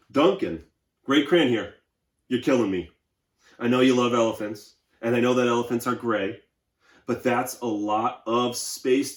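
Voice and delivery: weary gray crayon pleading for a break; tired Gray Crayon. Acted. Reads Gray Crayon's letter aloud.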